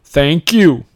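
put-on American accent with a loud greeting; a celebrity's best attempt at sounding American; Gerard Butler's American accent. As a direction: try hard at an American accent. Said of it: "I'm doing my best American accent".

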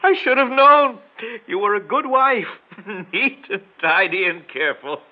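laughing bitterly mid-sentence; high, laugh-broken lines; bitter laughter. Acted. Bitter laugh at his wife.

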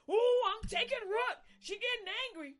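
high, loud gleeful taunting; gloating devil. Retold or imitated. Preacher voicing the devil gloating that she gets angry. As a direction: crow it like a devil who is winning.

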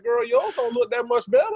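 sassy retort. Retold or imitated. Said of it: "and I'm like".

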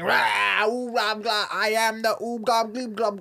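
high, loud, gurgling gibberish; gurgling fish man croak. Acted. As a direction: burble it like a blob monster. Blob creature speaks gibberish.

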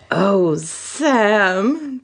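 drawn-out moan; lightly acted moan. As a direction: sigh it out with a stretched vowel. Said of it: "the brunette moaned".

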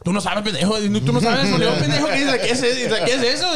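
high, worked-up imitated Spanish rant; mock scolding. Coworker retelling the contractor's complaint, mock exasperated scolding.

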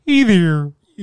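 loud frog puppet greeting; Kermit voice. Pretend. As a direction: belt it like Kermit. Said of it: "Kermit the Frog".

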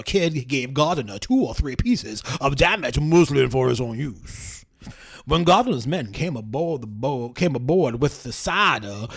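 lightly voiced southern gentleman reading; old southern gentleman. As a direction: read testimony like a genteel old southerner. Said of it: "I'll do the, the old southern gentleman".

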